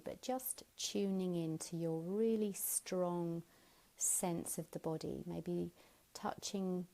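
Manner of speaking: hushed, unhurried yoga teacher voice; guided meditation. Real, not acted. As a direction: ease the listener gently into body awareness. Leads body-awareness meditation.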